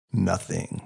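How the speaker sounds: breathy near-whisper, trailing off. A narrator's reading. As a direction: let it fall to a hush. Narrator's awestruck final emphasis.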